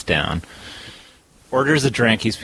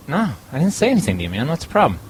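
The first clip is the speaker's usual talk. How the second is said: quick, slightly higher brush-off; annoyed bartender; 5 semitones higher, faster than usual. Retold or imitated. Bartender snapping back at the customer, quick and annoyed. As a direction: brush him off fast.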